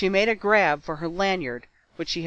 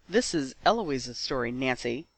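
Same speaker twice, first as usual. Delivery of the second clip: growled; 3 semitones lower, 3 dB quieter than usual. Acted. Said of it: "he growled".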